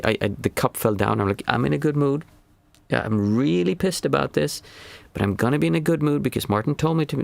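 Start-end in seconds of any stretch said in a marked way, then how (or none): 1.5-7.2 higher mock-cheerful "I'm in a good mood" through clenched annoyance; sarcastic fake good mood; forced cheerfulness. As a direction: pretend to be fine while clearly pissed. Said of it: "That's denial".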